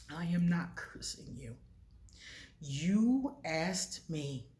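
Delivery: slow, soft, half-whispered reassurance; calm goddess voice. Retold or imitated. Goddess calmly answering her upset priestess, soft and slow.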